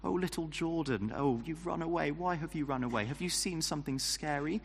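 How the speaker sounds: mock-sympathetic baby talk, lightly done; condescending parent. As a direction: talk down like a parent to a frightened toddler. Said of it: "like how a parent might ask a child".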